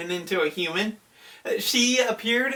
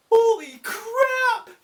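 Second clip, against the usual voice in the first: slow, much higher stunned yell; shocked yell; 4 dB louder, slower than usual. Retold or imitated. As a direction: bellow it as the mansion blows up. Hashira see mansion explode.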